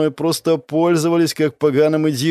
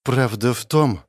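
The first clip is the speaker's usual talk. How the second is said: plain reading voice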